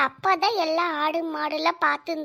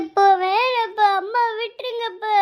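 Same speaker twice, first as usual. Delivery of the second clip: tearful pleading. Acted. Child begging father to let mother be, tearful. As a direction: beg father through acted sobs. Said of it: "அழுகாம போ பூமாரி".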